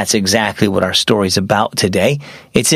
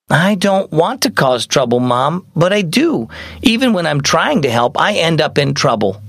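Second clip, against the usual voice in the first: lightly voiced upset girl, higher; troubled young girl; 4 semitones higher than usual. Mia confessing to Mom, mildly upset girl. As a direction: confess it with a touch of hurt.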